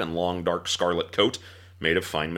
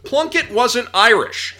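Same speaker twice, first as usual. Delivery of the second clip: laughing; 8 dB louder, slower than usual. Real, not acted.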